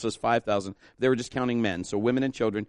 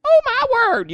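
much higher, much louder cry of wonder; high amazed shout; 13 dB louder than usual. Shown as a demonstration. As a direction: shout it out in astonishment. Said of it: "You can even say it with attitude".

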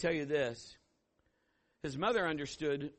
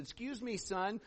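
put-on higher, softer call to a child; gently trying to get a boy's attention; lightly acted polite "excuse me"; polite address; 6 semitones higher, 3 dB quieter, slower than usual. Approaching a little boy in story.

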